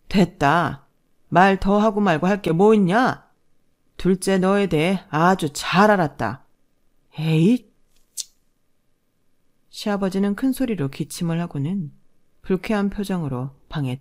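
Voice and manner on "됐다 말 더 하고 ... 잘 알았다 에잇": stern command. Acted. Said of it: "시아버지가 호령을 하셨어요".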